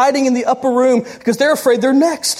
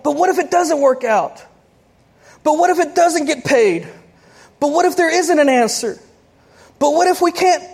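mock worried what-ifs; 5 semitones higher than usual. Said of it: "We get ourselves worked up on".

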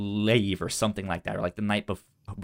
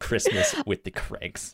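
silly high announce. Acted. Playful re-announce of the pick.

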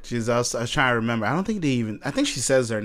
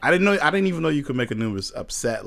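ordinary delivery

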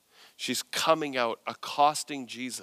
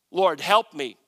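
loud reading of a plea; emphatic plea; 8 dB louder than usual. Acted. Woman kneeling before Jesus, emphatic plea. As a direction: call it out with a punch. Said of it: "I wonder how firm I should be reading that".

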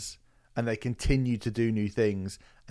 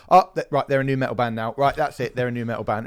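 mocking critics; 7 dB louder than usual. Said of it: "some people".

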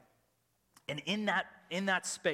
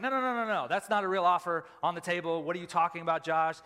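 denial; 5 dB louder than usual. Retold or imitated. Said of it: "I was in total denial".

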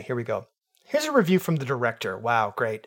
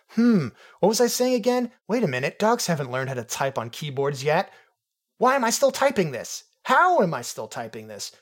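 dog voice; 4 semitones higher than usual. Acted. Reading the dogs' review in a puzzled dog voice. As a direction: read it like a confused excited dog. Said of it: "getting the dialect wrong".

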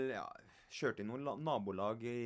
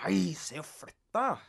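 mock shout; 2 semitones higher, 7 dB louder than usual. Shoving the woman aside.

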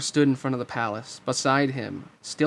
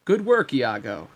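slow, self-satisfied grating voice; smug, grating villain; 4 dB louder than usual. Acted. Jafar praises his thieving parrot, smug grating voice. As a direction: praise a henchman smugly and slowly. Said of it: "said a smug, grating voice".

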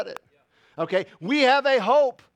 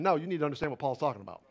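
ordinary talk

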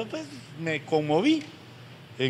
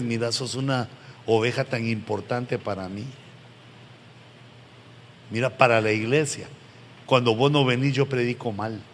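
lower, gentle appeal to a straying member; tender pleading; 5 semitones lower than usual. Pretend. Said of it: "lo que uno le puede decir es".

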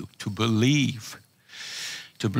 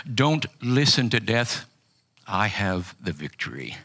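clear and succinct. Retold or imitated. Jesus speaking to a man facing death, clear and succinct. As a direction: state it clearly and simply, without hurry. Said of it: "very clearly, very succinctly said to me".

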